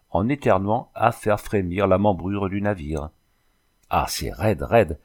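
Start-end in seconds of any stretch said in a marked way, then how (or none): 3.9-5.0 mildly exclaimed reaction to a strong drink. Acted. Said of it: "s'écria-t-il". (exclamation légère)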